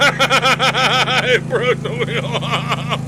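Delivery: words stretched by laughter; real laughter; laughing. Real, not acted. Laughing at broken bulldozer.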